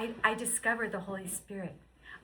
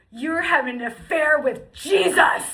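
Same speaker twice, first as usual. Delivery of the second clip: laughing; 6 semitones higher, 15 dB louder than usual. Retold or imitated. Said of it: "And he's like".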